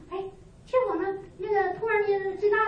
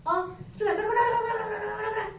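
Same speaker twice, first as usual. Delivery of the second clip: imitating tongues; 6 semitones higher than usual. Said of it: "就是方言".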